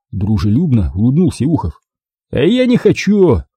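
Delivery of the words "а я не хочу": curt, final no; flat refusal. A narrator's reading. Diver flatly refusing the visitors at his door. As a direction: cut him off with a flat refusal. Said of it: "категорически отрезал мостовой".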